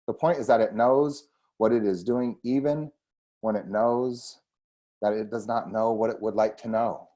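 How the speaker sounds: measured book reading with deliberate phrasing; reading aloud. Acted. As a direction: read the passage out to listeners, phrase by phrase. Reads book introduction aloud.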